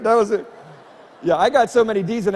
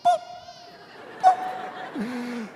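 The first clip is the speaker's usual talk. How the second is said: coffee pot laugh; 4 semitones higher than usual. Retold or imitated. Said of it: "she sounds like a coffee pot".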